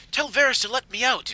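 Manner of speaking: acted loud insistence; insistent demand. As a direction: demand it loudly of the guard. Prisoner demanding release from guard.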